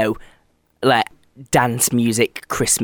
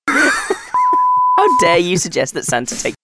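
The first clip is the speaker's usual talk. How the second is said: squeaky high, slow, laughing outrage; laughing mock outrage; much slower than usual. Real, not acted. Co-host laughing in mock offence at a rude joke. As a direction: pretend to be scandalised while cracking up.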